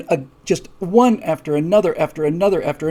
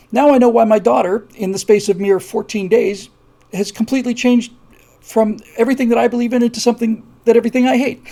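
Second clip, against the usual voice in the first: higher, louder indignant cry; a hint of an outraged mother, raised and louder; mother furious at the school board, higher and louder; angry mother; 5 semitones higher, 4 dB louder than usual.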